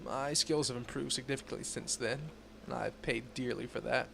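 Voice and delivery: breathless reading; running out of breath. Real, not acted. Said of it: "this part's making me run out of breath".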